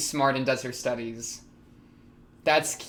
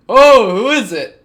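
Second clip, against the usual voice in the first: imitating Rudy; 7 semitones higher, 15 dB louder than usual. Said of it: "Rudy's just like".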